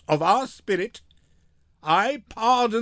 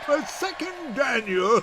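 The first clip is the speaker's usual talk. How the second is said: raised gloating exclamation, pitch up; triumphant cry; 5 semitones higher than usual. Acted. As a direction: crow it out over the beaten enemy. Gratiano gloats over Shylock's defeat.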